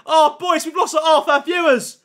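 high, loud alarmed cry to the chat; real panic at the crashing stream; panicked. Real, not acted. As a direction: sound the alarm as the viewers vanish. Stream crashed, viewers dropping.

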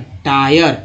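"टायर" with i said as eye; long I sound. Shown as a demonstration. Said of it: "आई का उच्चारण आई के रूप में".

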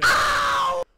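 sharp loud high "ow" of pain; pained yelp. Real, not acted. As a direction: yelp as if hit. Sudden pain cry in game.

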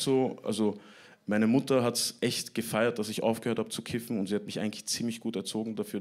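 normal talking voice

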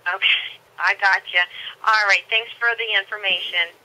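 thin phone-line voice; over the phone. Real, not acted. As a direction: heard through the receiver. Employee on the phone.

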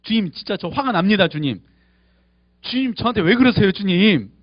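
a mild demo of venting anger at God; honest angry prayer. Shown as a demonstration. Pastor showing the congregation an honest angry prayer, lightly heated. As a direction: complain to God plainly, with a touch of heat. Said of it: "화가 난다고 정직하게 이야기할 수 있어야 돼요".

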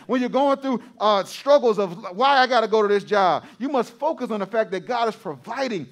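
insistent, rising exhortation; preaching. Real, not acted. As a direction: urge the congregation on with preacher's cadence. Exhorting congregation to stay focused.

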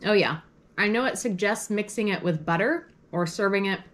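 talking while chewing; mouth full. Real, not acted. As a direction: speak around a mouthful of food. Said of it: "I'm chewing or talking with my mouth full".

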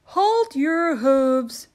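loud, slow elf command; christmas elf cry. Acted. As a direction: stop the reindeer firmly. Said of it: "cried an elf".

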